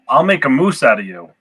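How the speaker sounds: lightly voiced Canadian Mountie; a touch of mock Canadian; Canadian accent. Player as a Mountie making a threat, light Canadian accent. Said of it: "simply for the Canadian accents".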